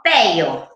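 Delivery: "Pello" with an L in place of the rolled R; child's mispronunciation. Shown as a demonstration. Therapist showing parents how a five-year-old says "Pello". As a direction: say "Pello" like a small child who cannot roll the R. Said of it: "perro a los cinco años".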